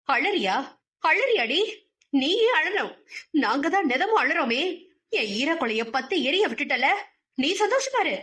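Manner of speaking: shouting rant. Acted. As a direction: scream down at the crying girl. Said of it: "அவர் கத்திக்கொண்டு இருக்கும் போதே".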